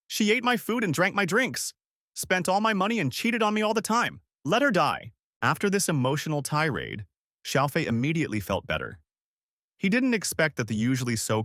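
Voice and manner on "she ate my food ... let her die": high, heated angry rant; venting angrily. A narrator's reading. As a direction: let the bitterness burst out. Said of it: "He clearly needed to vent".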